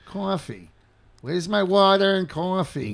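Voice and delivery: broad New York "cawfee"; thick New York vowels on coffee and water; New York accent. Shown as a demonstration. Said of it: "Well, that's how we say it".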